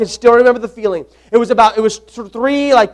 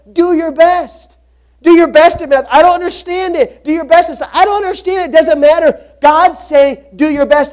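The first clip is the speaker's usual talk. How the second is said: fervent preaching; 3 semitones higher than usual. Acted. Preacher building fervor.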